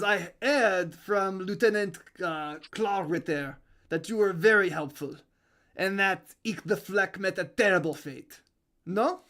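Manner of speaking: put-on French-accented spymaster; measured speech in a French accent. Spymaster praising a helpful agent, French accent. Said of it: "Could you say that without the accent".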